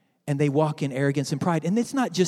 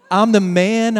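mock proud shout of I'm the man; loud boast; 2 semitones higher, 6 dB louder, slower than usual. Preacher's king bragging from the roof, loud mock boast. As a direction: crow it out. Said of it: "he's singing that".

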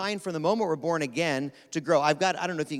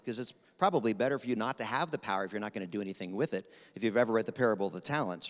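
auctioneer pace; 4 semitones lower, 3 dB quieter, faster than usual. Real, not acted. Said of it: "I'm talking like an auctioneer today".

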